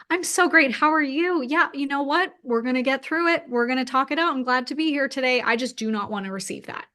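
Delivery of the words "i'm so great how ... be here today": high, bright mock-upbeat brush-off; empowered cheer. Answering pitying people, she mimics her own upbeat empowerment. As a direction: put on a chipper can-do front. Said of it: "turn it to be an empowerment".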